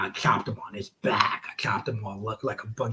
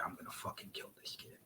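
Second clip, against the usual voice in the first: breathless whisper to himself; whispering his worry mid-run; whispered thought; 24 dB quieter, faster than usual. Retold or imitated. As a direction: whisper the panic under your breath. Inner thought while running ropes.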